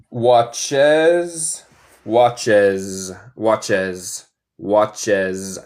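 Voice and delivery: "watches" repeated with a buzzed "-es"; drilled ending. Shown as a demonstration. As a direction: repeat "watches" slowly, fading out. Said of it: "También es como abeja".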